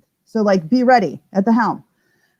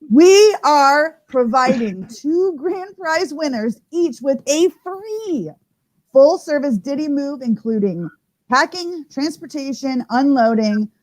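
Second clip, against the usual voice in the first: slower, weighty second announcement; slow emphatic repeat. Real, not acted. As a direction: repeat it slowly, hitting each word. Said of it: "Let me just say that again".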